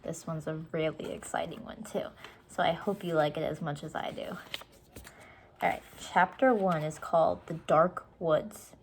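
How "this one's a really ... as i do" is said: whispered aside to the listener; soft whisper. Real, not acted. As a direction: breathe it out softly.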